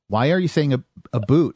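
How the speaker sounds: asking about "a boot" with a mild mock puzzled tone; light mock confusion over "a boot"; retold puzzlement at "a boot"; puzzled question. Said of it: "and I'm like".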